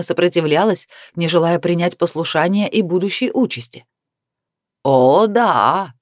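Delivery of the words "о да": laughing. A narrator's reading. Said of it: "засмеялся Дентер".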